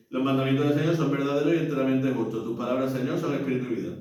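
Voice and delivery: no pause before the response; reading on without the cue pause; run straight on. Shown as a demonstration. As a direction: rush from verse into refrain. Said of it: "No es lo mismo que si yo digo".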